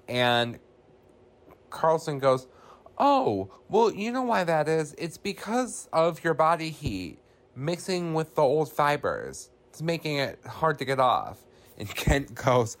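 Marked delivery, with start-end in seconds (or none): 3.0-11.4 high, loud put-on explaining voice; mock breezy explanation. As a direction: act out an over-eager explanation, starting very high. Retold Carlson's changed, breezy explanation.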